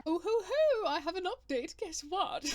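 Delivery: high, loud excited whoops before the news; excited update. Real, not acted. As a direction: burst in with news of a small kitchen win.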